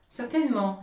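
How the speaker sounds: the miller declares it loudly; emphatic miller. Acted. Miller boasting aloud.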